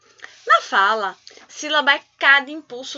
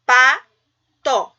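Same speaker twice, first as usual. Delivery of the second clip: "Pato" louder, pa and to held apart; syllable by syllable; 7 dB louder than usual. Shown as a demonstration. Teacher correcting the exercise, "Pato" syllable by syllable. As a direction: leave a pause inside "Pato". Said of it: "Quantas vezes eu abri minha boca".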